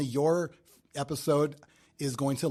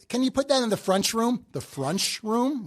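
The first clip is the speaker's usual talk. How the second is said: Midwestern accent; 5 semitones higher than usual. Shown as a demonstration. Showing how locals say front room, higher Midwestern accent. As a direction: demonstrate a heavy Midwestern accent. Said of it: "it's more that, like".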